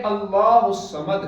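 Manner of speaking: अल्लाहुस समद, read without the nun; Quranic recitation. Shown as a demonstration. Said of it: "इस नून को छोड़कर पढ़ते हैं".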